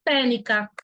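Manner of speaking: TÉCNICA with C dropped, "té-ni-ca"; mute C reading. Shown as a demonstration. Teacher showing a student the mute-C reading, mispronounced. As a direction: skip the C completely in TÉCNICA. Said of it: "teria que ler essa palavra assim".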